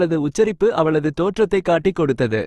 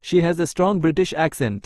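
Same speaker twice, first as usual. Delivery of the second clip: each word spaced out slowly for learners; slow dictation; much slower than usual. Shown as a demonstration. Teacher reading an English example sentence to Tamil learners, very slow and clear.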